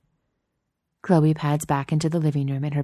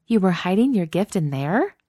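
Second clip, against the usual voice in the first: scandalized; 4 semitones higher than usual. Acted. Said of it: "in a scandalized tone".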